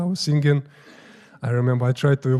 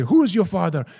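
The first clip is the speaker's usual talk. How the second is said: raised-pitch mock demand; comical shouting; 5 semitones higher, 4 dB louder than usual. Guru questioning every priest in turn, mock shouting. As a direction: imitate a guru's comic interrogation. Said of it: "he started to ask everybody".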